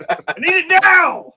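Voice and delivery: put-on whiny child. Child voice begging for peanut butter.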